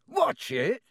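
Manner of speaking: booming warning shout; roar. Acted. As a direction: yell to protect the precious pumpkins. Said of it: "Hagrid roared".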